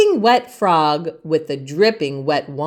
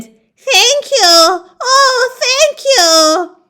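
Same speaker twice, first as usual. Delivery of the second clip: much higher, louder, overjoyed; grateful cry; 5 dB louder, slower than usual. Acted. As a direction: gush thanks with relief. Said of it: "the grateful witch cried".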